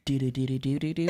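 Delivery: a hint of a sultry perfume ad. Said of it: "a sultry voice".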